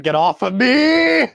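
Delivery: high, loud, stretched-out protest; indignant shout. Acted. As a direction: yell from under a pile of bodies. Mage Hand under a dog pile.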